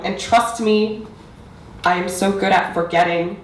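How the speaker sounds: building, emphatic poetry recital; spoken-word poetry. Acted. Poet reciting to parents and audience about mother tongue, spoken-word delivery. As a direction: press through the lines, then pause for weight.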